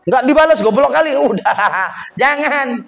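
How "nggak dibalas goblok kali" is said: mock provoking jeer. A bystander goading the angry man, high and jeering. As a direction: goad him to hit back.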